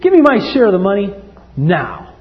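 lightly voiced greedy boy; demanding son. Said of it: "younger one said to his father".

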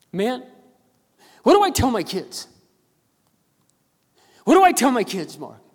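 high, loud imitation of a crying father; tearful plea. Tearful father asks pastor about his kids, acted anguish. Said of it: "just melted into tears".

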